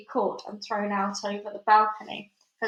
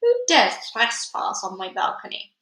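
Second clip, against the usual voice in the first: angry demand; 4 dB louder than usual. Acted. Witch demands intruder.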